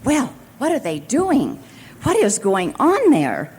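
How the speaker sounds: a boss growing really worried on the phone. Retold or imitated. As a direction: press the child, alarmed. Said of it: "really worried".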